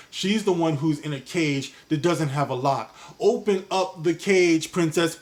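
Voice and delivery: ordinary talk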